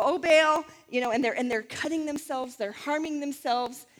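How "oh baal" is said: mock crying out. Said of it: "crying out to Baal".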